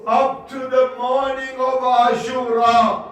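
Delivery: half-chanted religious lament; lament recitation. Acted. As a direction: intone it like an elegy for the martyrs.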